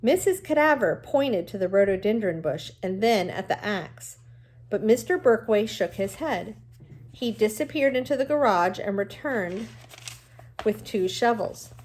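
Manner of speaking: reading a novel aloud to the class, even and clear; steady read-aloud storytelling voice; story narration. A narrator's reading. Teacher reads novel aloud to class.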